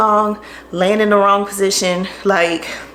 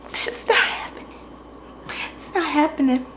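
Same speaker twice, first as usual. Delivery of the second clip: defeated; 6 semitones higher, 8 dB quieter than usual. Real, not acted. Giving up on bending over.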